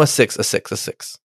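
soft unvoiced mutter. Real, not acted. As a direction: mutter it to yourself. Muttering decision.

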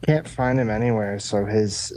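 ordinary talk

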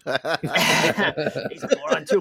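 slow, laughing through the words; laughing repeat. Retold or imitated. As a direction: chuckle the line out slowly. Echoing the quote, laughing.

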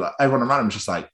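ordinary delivery

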